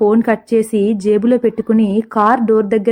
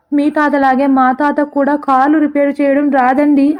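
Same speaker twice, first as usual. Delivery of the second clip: higher, slow, wailing lament in a changed voice; 4 semitones higher than usual. Acted. Driver wails about his grandfather to the stranger, mock wailing. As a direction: drag it out like a hammed-up howl. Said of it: "అని గొల్లుమన్నాడు driver".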